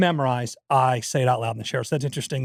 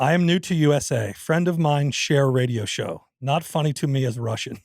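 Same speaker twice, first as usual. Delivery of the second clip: reading aloud in a put-on Russian accent; comic Russian accent, deliberate delivery. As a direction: read the email as a mock Russian. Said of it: "It's Russian".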